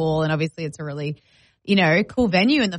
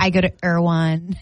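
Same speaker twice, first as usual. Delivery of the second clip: put-on American Valley girl; name-drop like an American Valley girl; mock Valley girl American voice; Valley girl American accent; 3 semitones lower than usual. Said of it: "I'm a valley".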